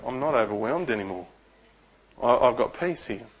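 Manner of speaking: soft, settled murmur; hushed peaceful realisation; quiet relief. Retold or imitated. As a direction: breathe it out as the weight lifts. Relief arriving at the office.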